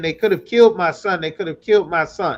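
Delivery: mock tearful, crying, pleading voice. Retelling a mother's words on the news: imitating a mother crying. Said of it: "And she's crying".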